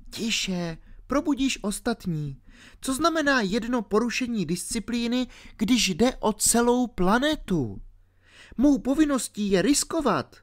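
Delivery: put-on a ten-year-old girl explaining herself. A narrator's reading. Alenka explaining to R why she fell asleep, girlish.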